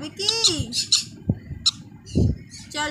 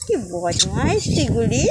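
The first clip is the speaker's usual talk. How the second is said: mock scolding; 3 semitones lower, slower than usual. Real, not acted.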